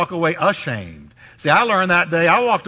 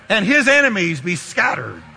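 shouted proclamation. Real, not acted. Preacher shouting a blessing over the church. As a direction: cry it out with full force.

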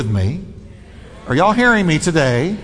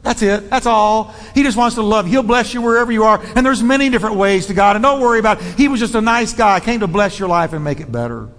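mocking soft Jesus; 2 semitones higher, faster than usual. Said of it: "present that kind of".

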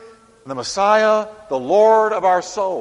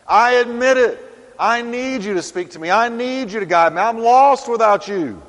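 higher, louder pleading to the Lord; a humble pleading prayer; 6 semitones higher, 5 dB louder than usual. Acted. Humble believer admitting need to God, raised pleading. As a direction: cry out your need, raised and earnest. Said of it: "But when you just say".

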